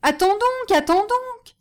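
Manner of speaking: high, loud drawn-out call; high-pitched frantic shout from the trapped cantor; panicked cry. A narrator's reading. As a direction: cry out to be spared. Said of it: "s'écria le chantre dans le coffre".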